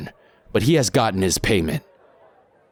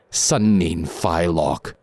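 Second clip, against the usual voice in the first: slow Cantonese new year greeting; sly cool toast; much slower than usual. Acted. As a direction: answer the toast with a smirk.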